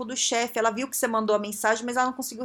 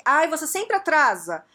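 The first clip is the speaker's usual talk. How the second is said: raised-pitch, exasperated complaint; higher, louder mock grumbling; wrong-way feedback; 5 semitones higher, 4 dB louder than usual. Shown as a demonstration. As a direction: act out a fed-up accusation. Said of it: "o jeito errado de dar o feedback?".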